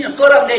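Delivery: "끓었네" with a sharp high 이 at the end. Shown as a demonstration. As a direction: push the final vowel of "끓었네" up high. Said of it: "이, 어, 아니잖아요".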